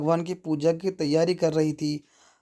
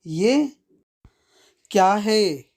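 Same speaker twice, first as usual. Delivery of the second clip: a sharp, higher, louder angry outburst; angry mother-in-law; 3 semitones higher, 5 dB louder, slower than usual. Acted. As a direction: snap it out in a mild rage. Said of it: "सास गुस्से से". (गुस्से से, ऊँची और तेज़ आवाज़ में)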